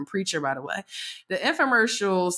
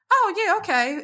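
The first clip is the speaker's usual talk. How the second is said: mock meek agreement; 11 semitones higher than usual. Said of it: "and I'm like".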